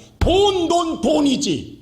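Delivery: mocking, sneering voice, high-pitched and slow.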